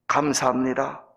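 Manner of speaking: lightly acted prayer of thanks, starting low; a hint of humble, measured praying. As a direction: pause between phrases as if praying. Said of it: "다음과 같이 기도를 드렸습니다".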